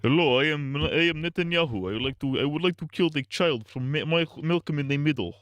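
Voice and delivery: a hint of a pompous world leader; mock Netanyahu. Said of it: "They're like".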